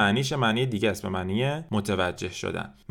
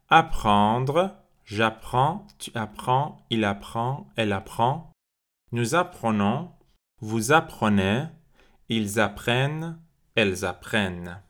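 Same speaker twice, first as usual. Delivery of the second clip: drill once more; much slower than usual. Shown as a demonstration. Teacher repeating the apprendre drill for the class, clear. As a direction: clear model forms, pausing between them. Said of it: "یه بار دیگه".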